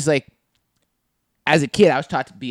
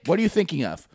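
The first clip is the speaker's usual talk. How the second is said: higher-pitched probing, at normal volume; insistent question; 4 semitones higher than usual. Retold or imitated. Offended friend asking the laugher, insistent but contained. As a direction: press them for the answer, still contained. First demand, then repeated harder.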